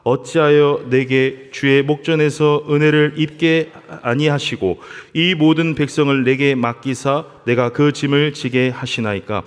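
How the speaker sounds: slow, measured reading of a Bible passage; scripture reading. Acted. Pastor reading Numbers to the church in a slow scripture-reading voice. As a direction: read the verses out deliberately.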